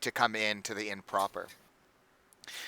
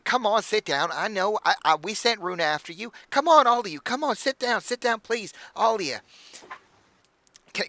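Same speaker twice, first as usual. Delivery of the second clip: high, gushing hostess voice; bubbly halfling innkeeper; 7 semitones higher than usual. Acted. Innkeeper welcoming the party, high and gushing. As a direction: fuss over the guests in a bright, much higher voice. Innkeeper offering food and drink.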